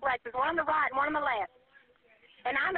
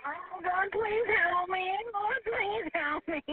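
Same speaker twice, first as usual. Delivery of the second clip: slow, sobbing plea to God; crying prayer; much slower than usual. Real, not acted. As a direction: pray through real tears. Caller praying in terror.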